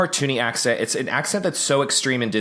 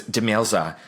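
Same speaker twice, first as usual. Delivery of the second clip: put-on Australian TV host accent; Jody. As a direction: imitate an Australian model-show host giving a verdict. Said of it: "Jody says to Demelza".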